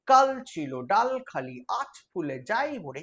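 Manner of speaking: verse with কাল hit hard at the start; stressed verse reading. Shown as a demonstration. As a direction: recite with a punch on the opening কাল. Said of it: "এই যে কাল বলে জোর করে দিচ্ছি".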